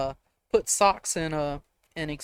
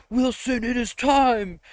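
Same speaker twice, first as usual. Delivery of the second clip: high, raised announcing voice; mock initiation summons; 7 semitones higher, 4 dB louder, slower than usual. Campmates summoning a boy to his initiation, high mock proclamation. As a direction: proclaim it like a ritual beginning.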